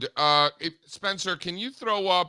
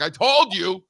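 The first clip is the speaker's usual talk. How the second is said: mildly exasperated, louder retold scolding; dad's I-told-you-so; 3 semitones higher, 6 dB louder, slower than usual. Dad voices scolding his crying daughter.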